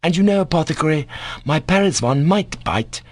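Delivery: put-on high boy's threat, tense; quivering voice. A narrator's reading. Boy threatens the doctor with his dog, quivering. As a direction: threaten with barely held anger. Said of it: "with quivering voice".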